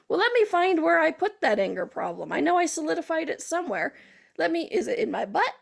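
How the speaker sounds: hammed-up puzzled searching; mock searching. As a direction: act out rummaging for something lost. Acts out hunting for the problem.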